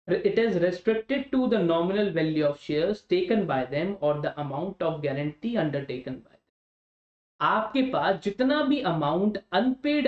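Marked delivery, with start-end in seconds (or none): 0.1-6.4 very slow and measured; slow dictation. Shown as a demonstration. Teacher dictating limited liability to students, very slow. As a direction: lay each word down for notes. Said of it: "dictating legal definition".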